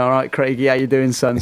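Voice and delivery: lightly put-on Geordie accent; a hint of Geordie, cheery greeting; Gazza's Geordie accent. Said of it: "Gazza in this Geordie accent saying".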